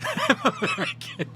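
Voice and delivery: I'm American in a squeaky falsetto; high squeaky impression of the guy. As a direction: squeak the line way up high like a cartoon. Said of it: "he just tells everybody".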